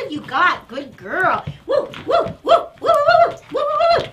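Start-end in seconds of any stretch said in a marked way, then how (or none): 1.7-4.1 high, loud woo-woo cheering; excited dog hype. Real, not acted. Trainer cheering the poodle on during tug, high and excited. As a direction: rev the dog up with bursts of high whoops.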